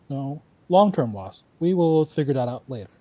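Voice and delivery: a lightly robotic new leader voice. Acted. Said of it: "You're talking like a robot".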